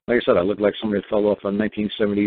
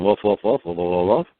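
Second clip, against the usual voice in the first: mock dog barking; 4 semitones lower than usual.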